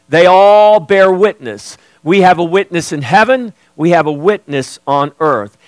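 emphatic sermon delivery with measured pauses; preaching. Real, not acted. Preacher telling church the Spirit bears witness, emphatic preaching. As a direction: preach it with firm stresses on key words. Preacher declares belief, reads verse.

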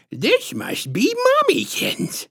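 put-on high, slow, syrupy baby-talk with a squishy lisp; patronizing lisp. A narrator's reading. Strange woman sizing up the mother, patronizing lisp. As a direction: coo it high and slow, lisping condescendingly. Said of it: "patronizing, squishy-throated lisp".

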